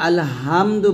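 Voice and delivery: আলহামদু with a light, unpressed h; common mispronunciation. Shown as a demonstration. Teacher repeating learners' common mistake, mispronounced. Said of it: "এই যে হাটাকে হা বলি".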